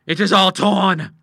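loud, high, drawn-out dismay; horrified cry. Acted. Father horrified at the dress, loud slow cry. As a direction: wail it out, aghast. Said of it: "he cried".

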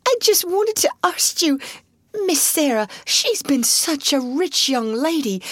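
put-on high, crying servant girl; tearful plea. A narrator's reading. Maid pleading for Sarah, very high and tearful. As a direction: plead for her through tears. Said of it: "tears openly streaming".

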